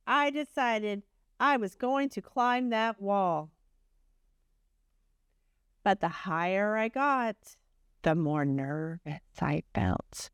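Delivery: gentle storybook reading voice; reading to children. A narrator's reading. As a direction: tell it like a bedtime story to a class. Reads Humpty's story aloud.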